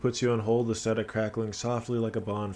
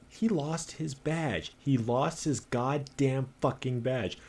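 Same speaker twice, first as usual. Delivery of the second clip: mocking repeat; 4 semitones higher, slower than usual. Colleague mocking the lost badge.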